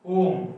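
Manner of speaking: ओम stretched long as the longest vowel; prolonged om. Shown as a demonstration. Teacher showing students the longest vowel, stretched ओम. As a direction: hold the ओम out long. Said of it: "जैसे".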